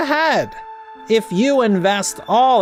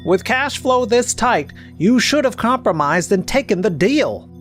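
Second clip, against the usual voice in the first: higher, pressing lecture; stern reproach; 4 semitones higher than usual. Acted. Tax advisor scolds client about a rejected deal, reproachful. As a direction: press the reproach home firmly.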